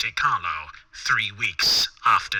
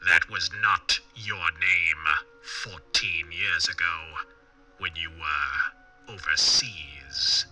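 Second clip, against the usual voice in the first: low, very slow, sinister whisper; 9 semitones lower, slower than usual. A narrator's reading. Man in black revealing Marsland's past, whispered voice. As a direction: whisper it slowly, letting it trail away. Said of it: "said the whispered voice".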